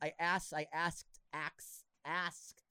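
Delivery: repeated, halting attempts at saying "asked"; tongue-tied stumble. Real, not acted. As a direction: trip over "asked" and retry it. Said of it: "easy for me to say".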